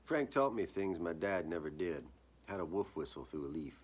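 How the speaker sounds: steady first-person reading, each sentence set down deliberately; story narration. A narrator's reading. Reading his own story aloud at a backyard gathering, measured narration. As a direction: read it like a dark small-town memoir.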